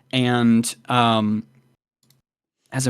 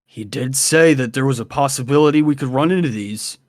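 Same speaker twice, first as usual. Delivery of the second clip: game master voicing Colton; faster than usual. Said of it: "and Colton says".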